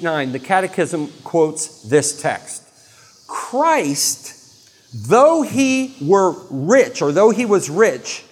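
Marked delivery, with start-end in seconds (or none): 3.3-8.2 slow solemn reading. Acted. Solemn scripture quote.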